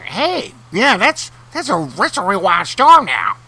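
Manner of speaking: high, bright goofy sidekick. Acted. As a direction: pitch up into a cheesy co-host. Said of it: "I should have met, like, a sidekick voice".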